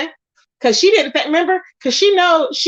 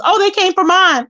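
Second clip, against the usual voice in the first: higher, sarcastic parody of her excuse; mocking excuse; 5 semitones higher than usual. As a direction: mimic her lame excuse with a sneer. Mocking Five Babe's excuse.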